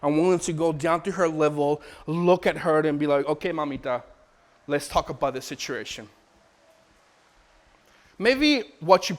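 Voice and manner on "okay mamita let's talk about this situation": calm reassurance. Retold or imitated. Calm father soothing crying child.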